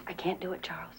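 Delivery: breathless whisper of defeat. Acted. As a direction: confess it in a whisper. Mother's confession.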